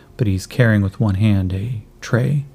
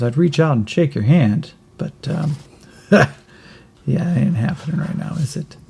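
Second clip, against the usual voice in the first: put-on kid voice; 5 semitones higher than usual. Kid jokes about missing hand.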